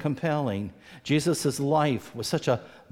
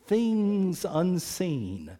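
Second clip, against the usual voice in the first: slow, higher, gently inviting; voice of faith; 5 semitones higher, slower than usual. Retold or imitated. Preacher voicing faith inviting his listeners, slow and higher. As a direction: invite them slowly into mystery.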